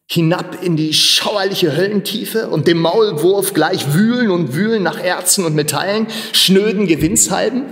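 protest, appalled at the very idea; indignant outcry. Acted. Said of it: "rief er".

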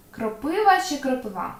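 кропива first with stress on І, then on А; two stresses compared. Shown as a demonstration. Teacher asks which stress is right. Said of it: "Подивімося на наші слова".

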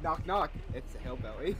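low, put-on killer voice; teasing hillbilly killer.

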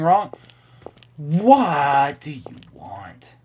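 slow breathy whisper; slow ghostly whisper; eerie whisper. Acted. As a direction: hiss it slowly like a ghost. Voicing a character in game text.

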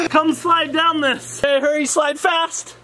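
high, slow, laughing invitation. Real, not acted. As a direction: talk through giggles. Laughing on the slide.

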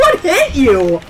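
slow, shouted and puzzled; shouted question. Real, not acted. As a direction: shout it in disbelief. Shouting over the chaos.

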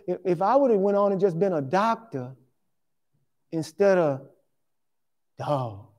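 low, hushed inner monologue, lightly played; awed musing to himself. Preacher voicing himself touring mansions, hushed and awed. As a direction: muse quietly as if walking through a mansion. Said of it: "And I'm walking through 'em going".

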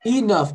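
"Enough" with GH pronounced as F; final F sound. Shown as a demonstration. Teacher showing the student how GH sounds, "Enough" ending in F. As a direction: say "Enough" clearly, closing on an F. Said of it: "Eu pronuncio como se fosse um F".

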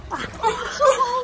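laughing. Real, not acted. Sitting down in cold pool.

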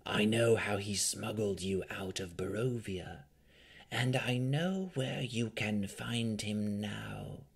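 slow, hushed vampire whisper; grave-silent voice. A narrator's reading. Vampire tempting Rowan with secrets in her dream, slow hushed whisper. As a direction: draw it out in an eerie, whispery murmur. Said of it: "in a voice more silent than the grave".

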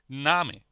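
"নামে" with a long, held a; long vowel. Shown as a demonstration. One consonant after the vowel, long a in "নামে". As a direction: stretch the first vowel of "নামে". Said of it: "এর উচ্চারণটা হবে long".

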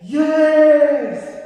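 high, loud, long-held imitation shout; loud class response. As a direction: shout it like eager second graders. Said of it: "they all responded loudly".

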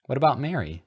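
loud, high, accusing question; hammed-up anger; angry. A narrator's reading. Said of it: "Ronald posited angrily".

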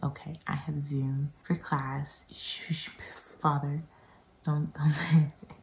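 hushed plea to keep silent; half-whispered mock hushing; retold shushing. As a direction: shush someone under your breath. Hushing father before Zoom class.

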